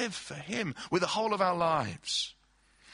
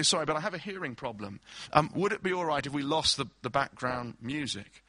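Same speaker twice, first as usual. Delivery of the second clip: polite guest; 2 semitones lower than usual. Acted. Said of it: "you very politely say".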